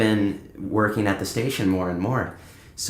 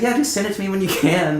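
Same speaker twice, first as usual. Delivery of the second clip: imitating the DJ; 9 semitones higher than usual. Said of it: "she was just like".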